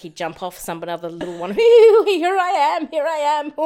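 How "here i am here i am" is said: very high, slow singsong bird; tiny bird voice. Pretend. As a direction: call out like a timid little bird. Voicing the little bird.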